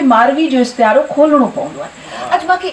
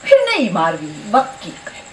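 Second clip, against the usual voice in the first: measured mushaira delivery with drawn-out line endings; poetry recitation. Acted. Poet reciting her Marvi poem to an appreciative gathering, declaimed verse. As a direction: recite the verse in stretches, pausing for praise.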